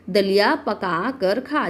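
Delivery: दलिया पका कर खा slowly, each "aa" held open; opened-up vowel signs. Shown as a demonstration. Teacher showing the mouth opens with each sign, opened-up vowel signs. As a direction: draw out the endings of दलिया, पका and खा. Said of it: "जैसे आप मात्रा लगाएंगे ना".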